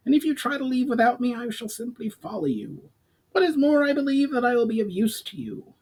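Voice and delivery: a goblin who won't be left behind; goblin voice, firm. A narrator's reading. Goblin insists on coming.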